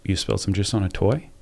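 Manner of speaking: soft mirrored question rising on "toy"; mirroring question. Shown as a demonstration. Parent mirrors a child's words back, soft rising question. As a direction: echo it back softly, rising at the end. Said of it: "You just, inflection".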